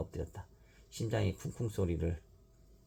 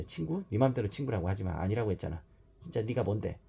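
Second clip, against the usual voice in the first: scornful shout; 3 semitones higher than usual. Acted. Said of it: "유마가 소리를 지르자".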